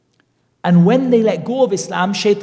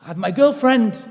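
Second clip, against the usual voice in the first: retold protest; 7 semitones higher than usual. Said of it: "He's like".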